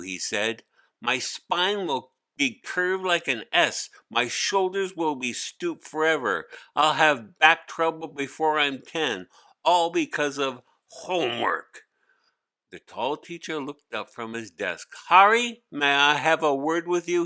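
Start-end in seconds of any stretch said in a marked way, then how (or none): 1.0-11.8 put-on much higher, louder boy's whiny complaint; a kid groaning under a heavy load; young boy Hari. Hari complaining about backpack. 15.1-17.2 much higher and louder call of the name; a teacher summoning a pupil firmly; stern teacher. Acted. Teacher calling Hari over.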